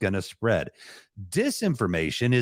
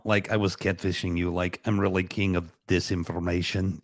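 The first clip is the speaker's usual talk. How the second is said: put-on lower, joking Russian accent with a Chicago slip; 4 semitones lower than usual. Co-host teasing the audience, a lightly put-on Russian accent. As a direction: play a mock Russian spy in a thick Russian accent. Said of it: "I caught the Russian accent mixed with a little bit of Chicago".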